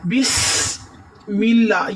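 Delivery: بسم اللہ with a thin lam in اللہ. Shown as a demonstration. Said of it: "یہ الف والا لام ہے". (اللہ کا لام باریک)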